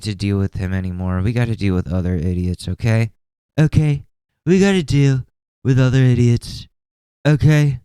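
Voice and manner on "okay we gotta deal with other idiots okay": louder, higher, scolding the chat; mock stern scolding. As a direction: talk down to them like naughty kids.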